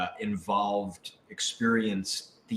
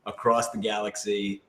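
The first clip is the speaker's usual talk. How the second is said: building, louder hammed-up speech; mock grand pitch; 2 semitones higher, 6 dB louder than usual. Cast jokes about an impossible happy ending, mock grand pitch. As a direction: ham it up like a utopian sales pitch.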